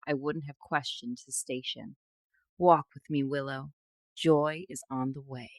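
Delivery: measured fiction reading, lines falling away at the ends; story narration. Acted. Host reading a fantasy excerpt to co-host, story narration. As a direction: read it like a romantic fantasy audiobook.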